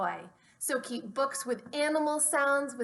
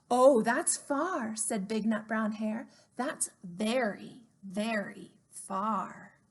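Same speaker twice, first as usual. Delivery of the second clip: tender slow; slower than usual. Acted. Father hare tucks in his sleepy child, slow and tender. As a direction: soften as he sleeps.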